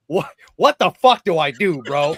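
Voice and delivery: loud, bewildered outburst; confused exclamation. Retold or imitated. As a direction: blurt it out, totally lost. Retelling confusion in six-sided ring.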